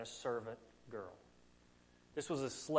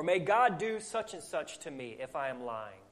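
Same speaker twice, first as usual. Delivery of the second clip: mildly emphatic sworn oath. Acted. Peter offers another curse on himself, emphatic oath. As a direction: swear it, falling away at the end. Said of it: "he said something like that".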